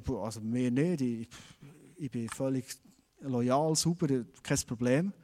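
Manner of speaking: a hint of guilty, defensive protest; defensive soldiers.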